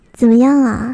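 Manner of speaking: plain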